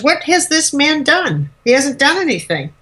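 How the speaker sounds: a hint of an exasperated judge; lightly voiced Pilate. Pilate questioning the charge against Jesus, lightly acted bafflement.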